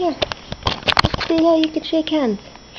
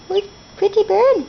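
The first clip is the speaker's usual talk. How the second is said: teaching a parrot; 6 semitones higher than usual. Shown as a demonstration. Modelling words for parrot.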